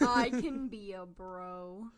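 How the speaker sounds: manly voice. Pretend. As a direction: put on a manly bro voice. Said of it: "she said that very manly".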